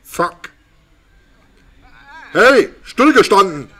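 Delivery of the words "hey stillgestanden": louder barked army order; barked drill commands. Pretend. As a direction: bark it like a drill sergeant. Commanding the worm like a soldier.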